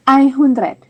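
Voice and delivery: ไอฮุนเดรด said as eye-hoon-dret; teacher models ไอฮุนเดรด for one hundred; German einhundert. Shown as a demonstration. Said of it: "จะออกเสียงว่า".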